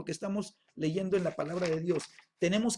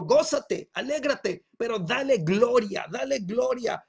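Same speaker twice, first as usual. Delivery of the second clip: raised, emphatic preaching call; God's exhortation; 3 semitones higher, 5 dB louder, slower than usual. Acted. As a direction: urge the congregation loudly, as God speaking. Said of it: "Dios te está diciendo". (exhortación fuerte y enfática)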